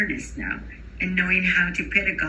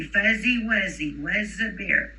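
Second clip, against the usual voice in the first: slow, clear Fuzzy Wuzzy with a buzzing Z; teacher leading a rhyme; slower than usual. Shown as a demonstration. Teacher leading children in a repeat-after-me rhyme. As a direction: lead the class in the rhyme. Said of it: "repeat after me".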